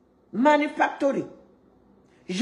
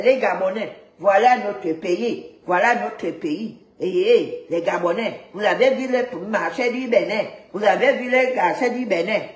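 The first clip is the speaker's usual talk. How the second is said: mocking Beninese accent; 3 semitones lower than usual. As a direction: mimic a Beninese accent, stretching the words. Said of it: "Vous avez entendu leur accent".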